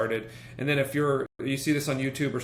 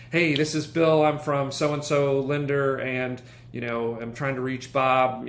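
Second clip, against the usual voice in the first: bad acting; 3 dB louder than usual. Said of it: "people will try to rush in there".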